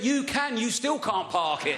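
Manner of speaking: acted high-pitched dad's comeback, slowing down; exasperated retort. Dad berating his child's parking, acted exasperation. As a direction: throw it back, imitating an annoyed dad.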